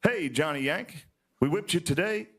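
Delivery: mock yell. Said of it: "They yelled out".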